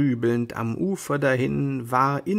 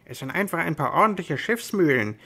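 annoyed retort; 4 semitones higher, faster than usual. Acted. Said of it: "rief Sancho Panza ärgerlich".

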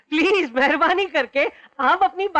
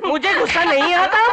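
a touch louder, straining to stay calm; tense denial; 2 semitones higher, 3 dB louder than usual. Acted. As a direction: hold the anger just under the lid. Man insisting he's calm. (दबे गुस्से में ज़ोर देकर)

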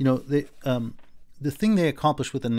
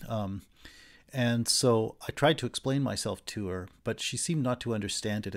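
calm narrating tone; 2 semitones lower than usual. Shown as a demonstration. Teacher demoing a refined adult's calm account, level and measured. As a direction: report it calmly, like a gentleman. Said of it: "in a calm tone of voice".

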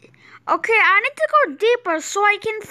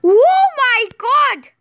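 amazed; 4 dB louder, slower than usual. Real, not acted. Amazed at what he found.

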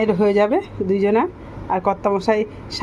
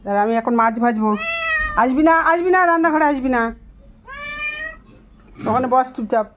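higher-pitched scolding, shooing a pet; 6 semitones higher than usual. Real, not acted. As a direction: firmly fuss at the pet to stay put. (রান্নাঘর থেকে পোষ্যকে তাড়াতে উঁচু গলায় বকুনি)

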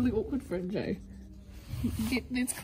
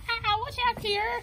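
warning shout; 11 semitones higher, 3 dB louder than usual. Pretend. Ricky warning Claire.

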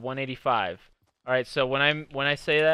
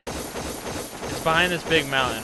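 mock quote; 4 semitones higher, slower than usual. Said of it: "You want me to tell you what I said?".

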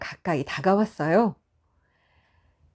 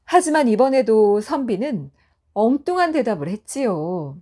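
ordinary delivery, nothing marked

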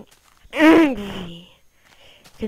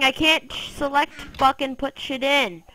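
usual speaking voice

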